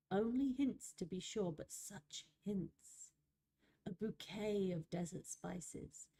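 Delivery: unhurried, wistful nature spirit; story narration. Acted. Reads nature spirit's monologue.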